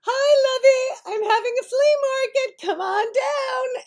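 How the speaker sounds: high, loud, cheery call from the lawn below; mother calling her daughter down to the flea market, high and loud. Retold or imitated. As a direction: sing out to your daughter upstairs.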